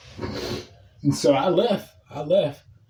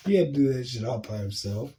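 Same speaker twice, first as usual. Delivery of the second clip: gleeful laughter; 5 semitones lower, 7 dB quieter than usual. Real, not acted. Laughing at coworker's plight.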